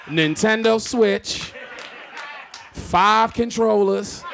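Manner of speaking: slow, loud and laughing; incredulous laughing list; laughing disbelief. Real, not acted. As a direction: spell it out in laughing outrage. Listing bag contents incredulous.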